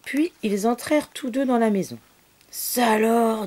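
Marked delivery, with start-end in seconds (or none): 2.5-3.5 louder, higher astonished exclamation. Acted. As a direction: exclaim it out loud this time. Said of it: "dit monsieur Beau pour la seconde fois".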